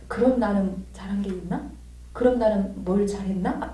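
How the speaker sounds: hushed, reflective inner voice; subdued self-questioning. Retold or imitated. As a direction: quietly turn the question on yourself.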